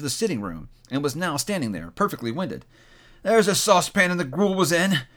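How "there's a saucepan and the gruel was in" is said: higher, eager exclamation; excited cry. A narrator's reading. Scrooge frisking round the room, excited cry. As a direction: point it out in delight. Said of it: "cried Scrooge".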